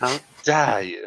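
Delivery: hammed-up New Zealand accent, stretched slowly. Shown as a demonstration. Retrying the offended line as told, exaggerated New Zealand accent. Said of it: "say it in a New Zealand accent".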